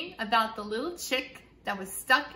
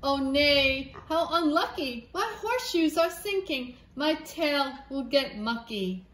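a horse fretting about mud; fussy horse; 2 semitones higher than usual. Acted. Horse voiced complaining.

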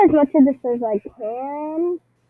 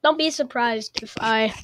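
muffled voice. Real, not acted. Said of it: "sorry for the muffled voice this time".

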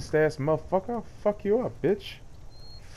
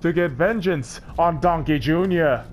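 mock trailer narration. Movie trailer style narration.

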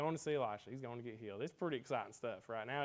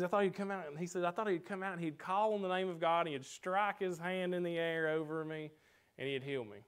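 upset Naaman; 5 semitones higher, 3 dB louder than usual. Retold or imitated. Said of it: "He gets upset".

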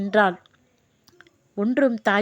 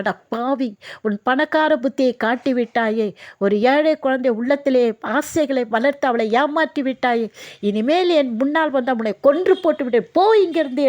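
retold angry scolding; 2 semitones higher than usual. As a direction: scold him, pushing harder toward the final order. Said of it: "அவள் அதட்டினாள்".

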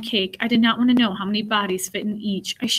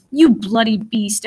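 slow, louder angry curse; swearing in anger; 6 dB louder, slower than usual. Acted. Girl curses the jailer for starving her brother. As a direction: spit the insult out slowly. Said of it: "I swore".

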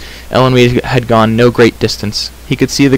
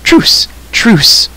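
high, urgent plea called out; urgent shouted surrender; calling out; 11 semitones higher, 4 dB louder than usual. A narrator's reading. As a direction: cry for a truce, pitched up. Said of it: "called the stranger".

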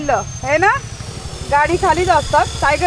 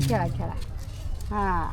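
खेळा, खेळा said much lower and softer; soft coaxing; 9 semitones lower, 12 dB quieter than usual. Real, not acted. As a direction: murmur खेळा, खेळा gently to the dog. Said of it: "टायगर खेळा त्यांच्यासोबत". (खेळा, खेळा हळू, खालच्या आवाजात)

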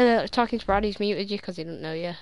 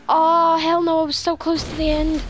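much higher and louder, anguished; real dismayed outcry; 7 semitones higher, 7 dB louder than usual. Real, not acted. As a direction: cry out at losing it so close. Falls just before the end.

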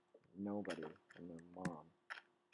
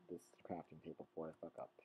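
whispered fast under the breath; unvoiced quick whisper; 3 semitones lower, 7 dB quieter, faster than usual. Shown as a demonstration. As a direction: hush it, almost a secret. Repeats line, first take whispered.

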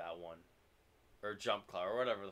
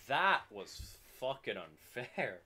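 slow indignant; 3 semitones higher, 5 dB louder, much slower than usual. Real, not acted. Lost to dead controller.

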